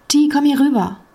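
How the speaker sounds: calling over. A narrator's reading.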